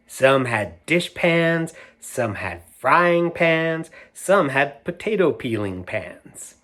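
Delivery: lively read-aloud storyteller; animated picture book reading; reading to children. A narrator's reading. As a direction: read it out to a room of kids.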